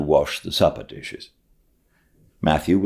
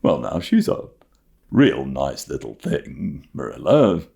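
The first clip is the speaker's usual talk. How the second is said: put-on shy old farmer; 2 semitones lower than usual. Matthew pleads for Anne.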